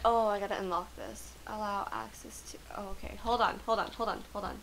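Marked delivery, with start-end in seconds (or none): 1.5-4.6 reading the prompt in a whisper. Real, not acted. Player reading a game menu, whispered. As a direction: murmur it half to yourself.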